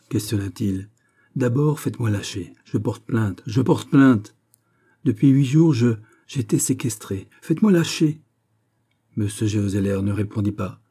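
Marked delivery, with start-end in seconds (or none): 1.4-8.2 agitated, rising complaint; indignant demand. Acted. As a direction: insist on release, getting higher and louder. Restrained man demands release. (plainte indignée, de plus en plus aiguë)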